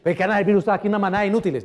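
acted irate client, voice rising a little; angry customer. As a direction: rattle off an acted customer's complaint. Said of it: "Ya empezó a subir".

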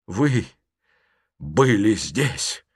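slow, shocked exclamation; stunned outcry. Acted. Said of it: "воскликнул он". (потрясённо восклицает)

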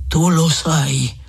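very slow, weighty insistence; slow, dark voice. A narrator's reading. Old friar pressing hesitant Renzo, slow and sombre. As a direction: stretch out each word gravely. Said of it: "con voce cupa e lenta".

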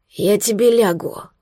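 slow, weak and hoarse. Acted. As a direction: rasp it out barely alive. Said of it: "хриплый, слабый". (хрипло и слабо, медленно)

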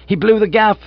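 loud, high, incredulous question; appalled. A narrator's reading. Master learns the boy told all, appalled. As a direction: burst out in horrified disbelief.

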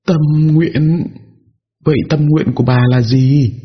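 high, puzzled questioning; surprised question. A narrator's reading. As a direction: ask back, caught off guard. Narrator questions ghost.

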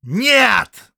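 loud, high bark. Acted. Count barking at the prisoner, loud and high. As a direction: spit the refusal out. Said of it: "рыкнул граф Фредерик".

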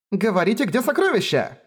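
high, pushy demand for the treasure; high insistent demand. Acted. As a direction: pounce on them with the question. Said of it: "Напустилась она на Райнер с Феррис".

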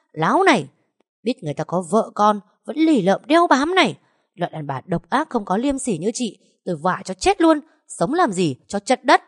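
a wife yelling at the mistress she is slapping; furious scolding. Acted. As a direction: berate her while hitting.

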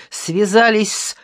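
loud, drawn-out indignant accusation; heated, emphatic reproach; angry shout. A narrator's reading. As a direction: accuse them with scornful anger. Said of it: "сердито крикнул Ящиков".

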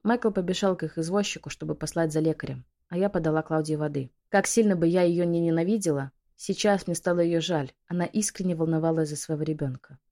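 usual speaking voice

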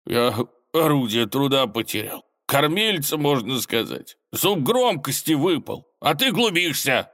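high, plaintive storybook whine; bitter, nearly crying. A narrator's reading. Robber who lost his whistling tooth, tearfully bitter. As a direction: lament it as if close to tears. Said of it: "с горечью, чуть не плача, пробормотал".

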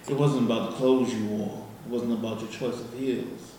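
seduce the listener with every line; sweet nothings. Acted. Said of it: "I'm gonna do a poem".

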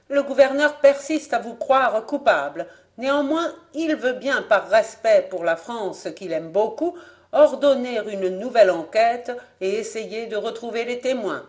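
a lightly voiced court interpreter; interpreter's verdict. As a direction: hand down the decision coolly.

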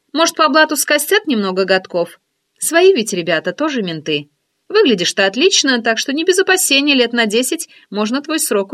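teasing curiosity, lifted voice; friend's voice. Acted. Oksana's birthday speech.

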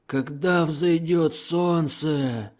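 high, slow demon wail leaning on когда; howling gurgling voice. A narrator's reading. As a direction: stretch it out, frightened and inhuman. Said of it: "Лихорадочно воющими и булькающими голосами".

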